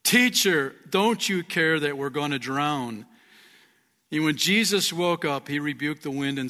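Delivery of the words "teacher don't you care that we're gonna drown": shouting disciples. Acted. Disciples waking Jesus in the storm, shouting. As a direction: shout it as a desperate appeal.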